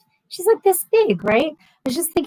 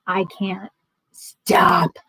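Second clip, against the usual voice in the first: exasperated; 3 semitones lower, much slower than usual. Real, not acted. Exasperated at daughter's friends messaging.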